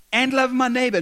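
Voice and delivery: rising to a fervent peak; loud climax. Acted. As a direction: cry out the last clause. Scribe's recitation climaxes.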